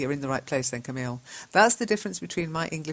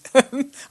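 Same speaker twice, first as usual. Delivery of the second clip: short high giggle; high laugh; 9 semitones higher, 9 dB louder than usual. Real, not acted. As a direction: laugh brightly at the tip. Laughs at the chat.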